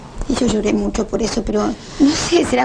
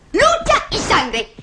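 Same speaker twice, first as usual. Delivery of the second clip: fervent slow cry; 11 semitones higher, much slower than usual. Acted. Passionate memory of parents' struggle.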